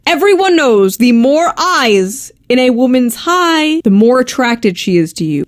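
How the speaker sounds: slow, mock-serious lecture on texting; mock expert. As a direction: explain it like fake science. Mock-serious dating science claim.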